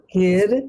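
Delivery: "Gir" with the tongue flicked on the palate; kirtan first syllable. Shown as a demonstration. Teacher shows how to say "Gir" in kirtan. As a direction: voice "Gir" from behind the teeth. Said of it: "say it".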